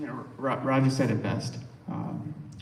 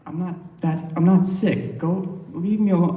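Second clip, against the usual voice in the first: mildly exasperated retold protest, louder; retold insistence; 4 semitones higher, 6 dB louder than usual. Patient shooing off the worried doctor, insistent. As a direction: imitate a patient insisting, firm and a bit raised.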